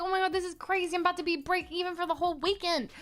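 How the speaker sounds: high, worked-up reenacted panic; breathless-with-drama self-impression; dramatic. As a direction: play up being so close to winning. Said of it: "I was dramatic".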